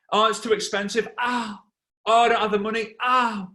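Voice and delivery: high, loud, hammed-up wailing; mock agony and complaint; wounded gladiator. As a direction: cry out as each blow lands. Acts gladiator wounded by objections.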